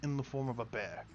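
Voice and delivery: astonished knight. Acted. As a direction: wonder at the bear woman. Lancelot asks the woman.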